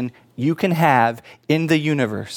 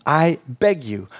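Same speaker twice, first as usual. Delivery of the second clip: earnest plea; slower than usual. Real, not acted. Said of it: "I want to beg you".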